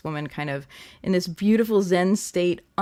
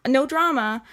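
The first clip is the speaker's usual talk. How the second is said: higher, airy brush-off of a carefree person; breezy dismissive voice; 10 semitones higher, 5 dB louder than usual. Retold or imitated. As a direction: toss it off like nothing matters. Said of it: "one of those people who's like".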